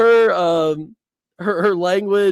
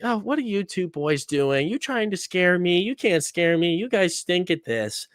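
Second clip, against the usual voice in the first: sassy; 4 semitones higher than usual. Retold or imitated. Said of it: "And she's being super sassy".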